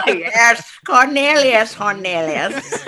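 said through a laugh, slowly. Real, not acted. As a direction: laugh out the silly name. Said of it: "Pig Latin version of my name".

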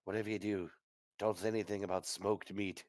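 hushed warning to companions; soft, conspiratorial aside; whisper. Acted. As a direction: keep it down, as if cattle might hear. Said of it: "I whisper".

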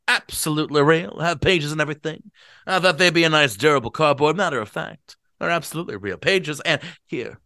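put-on booming eager drunk; owl-eyed drunk. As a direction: show off the books to the guests. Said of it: "give Gatsby a bad voice".

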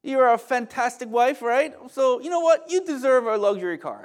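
high, loud, gushing praise to a wife; butter up your wife with rising enthusiasm; playfully re-enacted husband's flattery; sweet-talking husband. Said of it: "that's how I talk to my wife".

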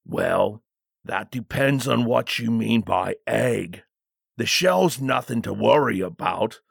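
lightly voiced guard, measured and portentous; hint at danger with careful deference; wary bodyguard. Bodyguard recalling his mother's warning, lightly ominous.

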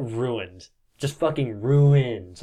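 RUINED stretched long, falling at the end; drawn-out emphasis on ruined. Real, not acted. Game master tells players the face is wrecked, slow emphatic ruined. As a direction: lean slowly on "ruined". Stressing how wrecked one side is.

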